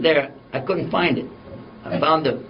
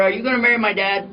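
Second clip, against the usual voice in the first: put-on higher-pitched little girl's question; little daughter; 7 semitones higher than usual. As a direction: lightly imitate a curious young daughter. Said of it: "she says to her".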